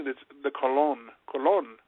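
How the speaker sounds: Colon said as coh-LOHN, stress on the second syllable; correct pronunciation. Shown as a demonstration. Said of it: "Did you just call them the Colon family?".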